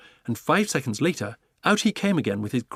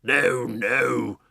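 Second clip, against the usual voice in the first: Duke shouting; 3 dB louder than usual. Acted. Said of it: "shouted the Duke".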